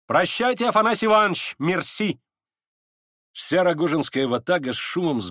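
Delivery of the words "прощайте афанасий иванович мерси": high, ringing goodbye; airy farewell. A narrator's reading. Настасья Филипповна takes leave of Афанасий Иванович, high and airy. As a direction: toss the goodbye out, pitched high.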